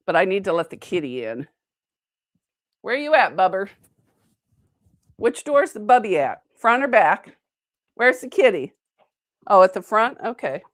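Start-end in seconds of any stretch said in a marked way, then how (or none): 2.8-8.7 pet-calling voice. Real, not acted. Calling for the cat.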